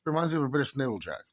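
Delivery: affected Irish dialect; put-on Irish accent. Telling viewers about a flag, put-on Irish accent. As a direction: talk on in an assumed Irish voice.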